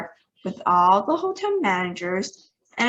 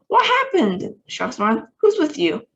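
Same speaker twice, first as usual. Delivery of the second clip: anxious question; 7 semitones higher, 4 dB louder than usual. A narrator's reading. President anxious on the radio.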